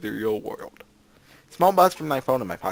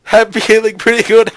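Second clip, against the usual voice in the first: loud, squeaky-high embarrassed reply; creaking high pitch; 8 semitones higher, 13 dB louder than usual. Acted. Boy answering his date, voice creaking high. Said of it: "my voice creaking towards a high pitch".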